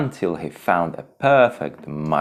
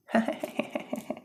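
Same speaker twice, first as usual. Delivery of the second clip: mocking laugh; 6 dB quieter than usual. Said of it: "vultures laughed at him".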